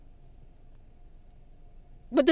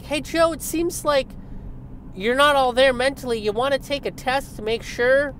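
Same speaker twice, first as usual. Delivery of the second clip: much higher, louder mock voice; hammed-up worried reporter; mock concerned questioner; 12 semitones higher, 4 dB louder than usual. Mock questioner asking Biden.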